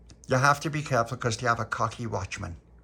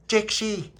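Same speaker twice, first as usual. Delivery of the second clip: high, louder call of the warning; warning shout; 10 semitones higher, 4 dB louder than usual. Retold or imitated. Boy teaching his friend the warning cry, mock shout. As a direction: call it out to warn the gang. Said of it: "you have to shout to everyone".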